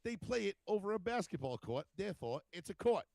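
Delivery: high-pitched retold rebuttal; stubborn argument. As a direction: argue the silly point, re-enacting it.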